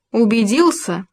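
a touch of triumph; gloating little question; triumphant. A narrator's reading. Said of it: "ликующе показал ёж".

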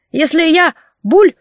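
high whine cut off by a gurgle; drowning man whining. Acted. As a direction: whimper then choke on water. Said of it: "заныл мужчина".

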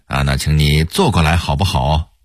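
lightly imitated Hong Kong-Taiwan TV host; Hong Kong-Taiwan accent. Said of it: "也喜欢用港台腔儿".

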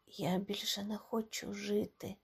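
very soft, broken murmur; quiet despair. A narrator's reading. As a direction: barely breathe it out in grief. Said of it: "тихо сказав Гомес".

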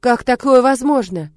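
loud, high, slow disbelief; stunned cry at the sky; astonished. Acted. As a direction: villager crying out in amazement. Villagers stunned by the miracle.

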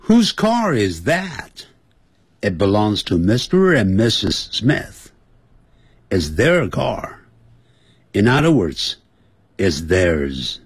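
带读对话. Shown as a demonstration. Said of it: "接下来对话讲".

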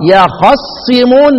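خصمون slowly recited with an open "a" on the kha; open vowel. Shown as a demonstration. Teacher showing students the fatha, slow open-vowel recitation. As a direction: open the fatha after خ in خصمون, draw out the ending. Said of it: "احنا عند الحركة مفتوحة".

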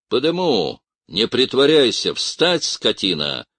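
loud barked orders; angry command. A narrator's reading. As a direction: force him to his feet. Officer orders crying seminarian up.

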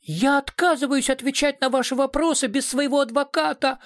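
frightened squeak of a cornered director; high, shrieking refusal in panic; shrill squeal. A narrator's reading. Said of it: "взвизгнул Калюжный".

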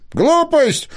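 a mock indignant cry of Глупость; fox's outcry. A narrator's reading. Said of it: "вскричал лис".

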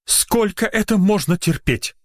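high-pitched indignant complaint; exasperated rant. A narrator's reading. Doctor ranting to nurse, exasperated.

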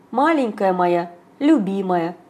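slow tender comfort; ласково успокаивая; нежно. Acted. Папа утешает маму. (нежно и медленно)

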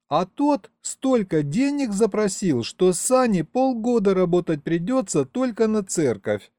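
put-on high, aggrieved girl's whimper; tearful young woman. A narrator's reading. Young mother tells of the priest's price, high and tearful. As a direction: lament it in a high girlish voice. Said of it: "снова всхлипнула девушка".

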